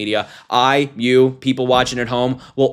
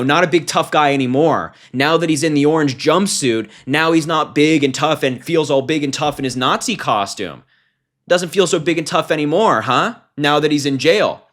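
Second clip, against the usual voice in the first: mocking taunt; 4 semitones higher than usual. Real, not acted. Taunting the jailed attacker.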